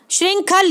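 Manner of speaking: श्रृंखल opening on a hissed "shr" cluster; wrong pronunciation. Shown as a demonstration. Teacher rejecting a wrong spelling, sh sounded clearly. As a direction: say श्रृंखल with a sh before the r. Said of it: "गलत है".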